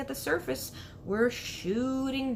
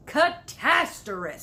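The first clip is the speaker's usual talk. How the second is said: horrified exclamation; 6 semitones higher, 7 dB louder, slower than usual. Acted. Giant horrified at news.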